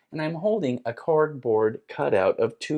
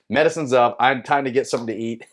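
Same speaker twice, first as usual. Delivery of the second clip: laughing; 3 semitones higher, 5 dB louder, faster than usual. Real, not acted. Laughing wrap-up.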